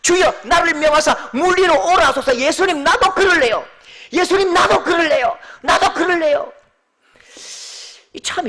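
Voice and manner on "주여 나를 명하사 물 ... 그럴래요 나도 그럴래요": high, loud, bursting request; eager shouting plea. Acted. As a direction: beg Jesus to let you come, carried away. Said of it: "이런 말을 해도 되는지 안 되는지도 모르고".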